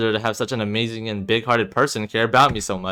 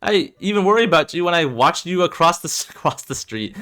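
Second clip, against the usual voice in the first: upset; 7 semitones higher than usual. Acted. Heated argument between best friends.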